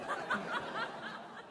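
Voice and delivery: airy high giggle; a quick breathy laugh. Real, not acted. Laugh after punchline.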